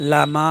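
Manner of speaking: লামা with the final aa stretched one beat; one-alif elongation. Shown as a demonstration. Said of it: "তবাই এক আলিফ".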